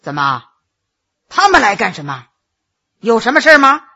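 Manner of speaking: low, displeased master questioning a servant; suddenly stern. A narrator's reading. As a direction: demand an explanation with a darkened face. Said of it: "当即把脸一沉". (沉下脸来低声质问)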